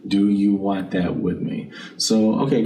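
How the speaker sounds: normal talking voice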